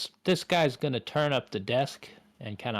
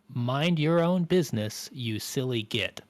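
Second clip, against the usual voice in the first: slow, lightly put-on Cockney telling-off; a hint of Cockney, dragged out slowly; Cockney British accent; slower than usual. Veronique tells the player off in mild Cockney. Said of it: "in the most British voice possible, almost Cockney".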